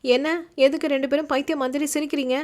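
annoyed yell at two laughing men; half-playful outburst; mock shout. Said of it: "என்று யஷ்வி கத்த".

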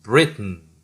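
"Britain" with the t let out through the nose; nasal t release. Shown as a demonstration. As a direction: push "Britain" out with a puff of air through the nose on the t. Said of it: "콧바람으로 트 발음을 내는 거예요". ("Britain"의 트를 콧바람으로 터뜨리듯)

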